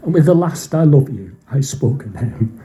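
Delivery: real tears threatening during a poem; starting to choke up. Real, not acted. Reader afraid of breaking in tears, starting to choke up. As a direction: recite while holding back tears. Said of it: "See, it's starting".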